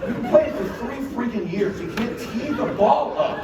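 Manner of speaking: high, laughing put-down; mock the other kids while chuckling; laughing mock quote. Dad mimicking kids scoffing at his son, laughing. Mocking other kids' reaction.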